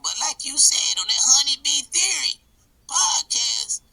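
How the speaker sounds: loud rowdy redneck character. Acted. Redneck Bill rants.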